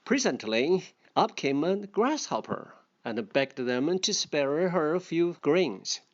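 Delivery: a lightly voiced storybook reading; story reading. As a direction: read the fable aloud to the class. Reading fable aloud to learners.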